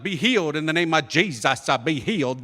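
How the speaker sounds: hammed-up faith healer; lightly mocked televangelist, tacking "uh" onto phrases; TV preacher. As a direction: imitate a healing TV preacher. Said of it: "some preacher man come on T V".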